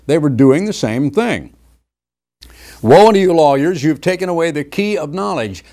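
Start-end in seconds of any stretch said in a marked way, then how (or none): 2.8-5.6 loud, high thundering woe; fiery pulpit rebuke; preaching scripture. Acted. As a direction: blast the woe at the lawyers. Christ's rebuke, shouted.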